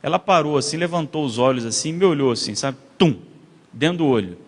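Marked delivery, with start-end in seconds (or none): 3.0-3.2 horror-film sting. Retold or imitated. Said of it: "Parecia filme de terror".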